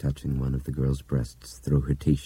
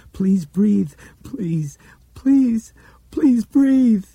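high, loud, breaking pleas; desperate begging; 8 dB louder, much slower than usual. Acted. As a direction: beg her to breathe, frantic. Begging dead girl.

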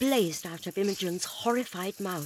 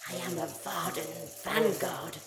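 hissing voice; 3 semitones lower, 4 dB quieter than usual. Acted. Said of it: "hissed the voice".

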